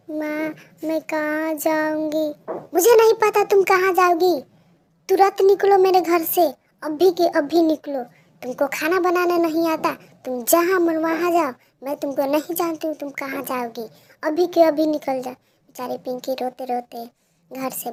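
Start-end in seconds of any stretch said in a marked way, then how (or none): 0.1-2.3 slow, higher helpless plea; pleading child. Acted. Pinky asking her mother where she will go, pleading. 2.7-15.3 loud, high yelling her out; furious shout. Acted. Mother ordering Pinky out of the house, shouting.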